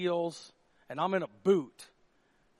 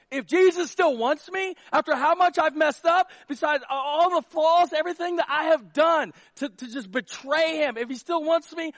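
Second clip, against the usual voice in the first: Peter all in; 9 semitones higher, 12 dB louder than usual. Retold or imitated. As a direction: voice Peter's desperate resolve, almost shouting. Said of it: "he's this".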